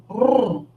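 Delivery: a rolled Rrr, trilling the tongue; rolled r sound. Shown as a demonstration. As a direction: roll the r like a motor. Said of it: "Faz esse barulho". (som de r vibrado)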